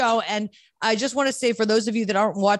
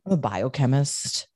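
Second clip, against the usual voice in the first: smug brag; 6 semitones lower, slower than usual. Retold or imitated. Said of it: "go around being like".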